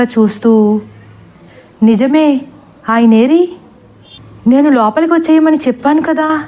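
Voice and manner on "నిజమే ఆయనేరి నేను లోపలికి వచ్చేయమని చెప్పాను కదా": flustered. Acted. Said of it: "కంగారుగా".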